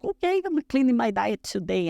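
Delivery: high-pitched, eager announcement; acted resolve. Competitor starting her diet that same afternoon, acted-out eager resolve. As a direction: act out a sudden burst of resolve.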